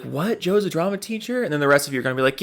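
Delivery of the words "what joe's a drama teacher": mock surprise. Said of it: "For some of you, you're gonna be like".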